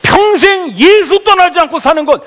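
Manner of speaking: loud, high full-force sermon; fervent preaching. Real, not acted. Pastor crowning his point to the congregation, fervent preaching. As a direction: ring it out like a rallying preacher.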